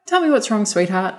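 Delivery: put-on gently coaxing a crying girl; kindly taxi driver. Taxi driver comforting crying passenger.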